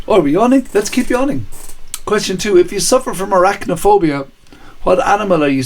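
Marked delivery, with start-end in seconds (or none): 0.1-1.5 lightly higher, playful voice of the body; voicing own body. Host voicing own body to viewers, lightly playful. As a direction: let the body speak, a touch cheeky. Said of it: "and then my body went".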